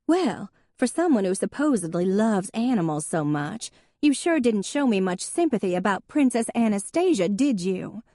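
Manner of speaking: a sister's understated peevish retort; lightly acted sharp complaint; snapping. A narrator's reading. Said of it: "Hadley snapped".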